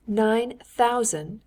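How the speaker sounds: surprised repeat. Acted. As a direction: drag out the figure in disbelief. Repeats the salary figure, frowning.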